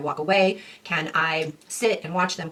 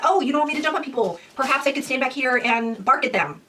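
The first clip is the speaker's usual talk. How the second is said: higher, fast, chirpy dog voice; the dog's voice; 5 semitones higher than usual. Retold or imitated. Dog offering another behavior to its owner, higher and quick. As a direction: voice the dog offering a cheerful idea. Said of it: "They're gonna be like".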